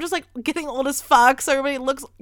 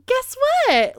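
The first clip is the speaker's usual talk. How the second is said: much higher, louder giddy burst; crazy excited; 5 dB louder than usual. Retold or imitated. Telling people she's moving, much higher, giddy and louder. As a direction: blurt it out like you sound a bit crazy. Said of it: "the way I must have sounded so crazy".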